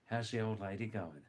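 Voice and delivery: put-on "How's the old lady going" linked in Aussie style; Australian accent. Shown as a demonstration. Teacher showing slang for the wife, "How's the old lady going" in linked Australian. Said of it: "fifty percent speak like that".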